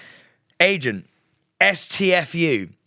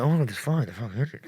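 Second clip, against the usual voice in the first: imitated whisper; 4 semitones lower, 5 dB quieter, much faster than usual. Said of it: "you hear whisperings going".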